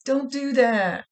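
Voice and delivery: loud, high alarmed refusal; frightened no. Retold or imitated. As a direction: stop them in a rush of fear. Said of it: "She's like".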